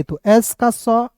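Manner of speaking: slow, letter sound drawn out; teacher showing a letter sound slowly; slow careful explaining. Shown as a demonstration. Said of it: "अब देखिए यहाँ पे एस ओ एन ए".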